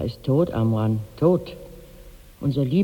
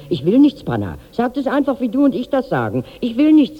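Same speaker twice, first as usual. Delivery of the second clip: quoting a refusal; 9 semitones higher, 4 dB louder than usual. Retold or imitated. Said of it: "sagt er und lässt das Essen stehen".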